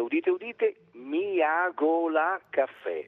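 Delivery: announcing with trumpets; town crier. Pretend. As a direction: proclaim it like a herald. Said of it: "e qui squillino le trombe".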